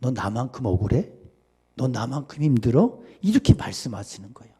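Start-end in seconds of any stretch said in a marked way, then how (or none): 0.0-3.0 gentle Jesus. Retold or imitated. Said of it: "예수님 뭐라 그랬는지 알아요".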